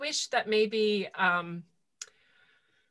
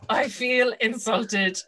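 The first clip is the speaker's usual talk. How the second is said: slow, drawn-out mock offence; mock offended; 3 semitones higher, 5 dB louder, much slower than usual. Fan hearing her favourite book mocked, mock offended. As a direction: play-act being personally insulted.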